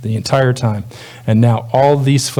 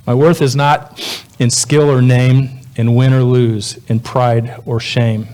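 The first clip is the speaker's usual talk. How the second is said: poem reading. Acted. Reads song lyrics as a poem.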